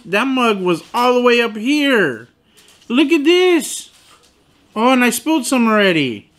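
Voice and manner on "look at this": outraged showing. Real, not acted. Showing the underfilled cup.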